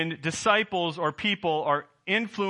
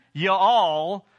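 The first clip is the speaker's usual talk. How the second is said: mock Southern y'all, a little louder; Southern accent; 5 dB louder than usual. Preacher sampling a pastor's mixed accent, Southern accent. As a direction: lightly imitate a Southern accent. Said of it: "accent between a Southern".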